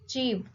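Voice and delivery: "achieve" with CHIEVE stressed; stress on second syllable. Shown as a demonstration. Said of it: "the stress is on the second syllable".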